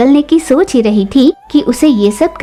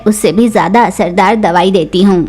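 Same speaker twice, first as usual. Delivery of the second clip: lower, calm shopkeeper voice; Cheechu crow voice; 4 semitones lower than usual. Acted. Shopkeeper crow calming angry Tooni, lower steady voice. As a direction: reassure the customer evenly.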